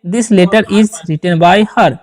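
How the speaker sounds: each word spaced out slowly for students; slow dictation. Shown as a demonstration. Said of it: "इस प्रकार से भी sentence बना सकते हैं". (धीमे-धीमे बोलकर लिखवाना)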